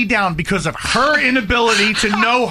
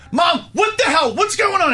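higher pitched demanding yell; exasperated shout; 8 semitones higher than usual. Retold or imitated. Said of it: "I call and I go".

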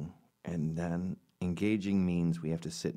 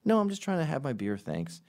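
higher, fast brushing-off decline; polite refusal; 7 semitones higher, 3 dB louder than usual. Retold or imitated. Will Ferrell politely refuses stadium owners, high and quick. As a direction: wave them off while sipping a beer. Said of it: "And he goes".

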